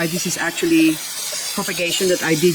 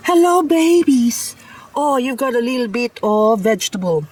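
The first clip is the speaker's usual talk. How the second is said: cooing at plants; 6 semitones higher than usual. Real, not acted. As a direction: coo at your little seedlings. Greeting her baby plants.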